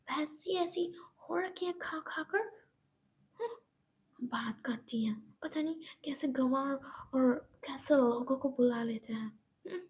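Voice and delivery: sneering, scornful aside; contemptuous mutter. Acted. Monika insults the aunt under her breath, contemptuous. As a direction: sniff in disdain. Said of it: "Monika कहती".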